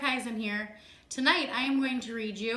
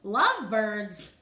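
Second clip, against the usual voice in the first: incredulous echo; 4 semitones lower, 4 dB louder than usual. Acted. Gerald echoes Piggie in disbelief.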